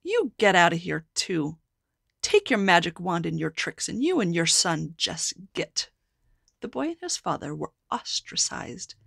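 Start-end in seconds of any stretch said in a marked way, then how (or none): 0.0-5.9 angry townspeople. Acted. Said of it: "People said to the father".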